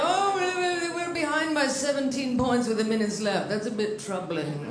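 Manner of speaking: mock commentator, slowing into understatement; imitated sports announcer. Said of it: "That's really how they call the shit".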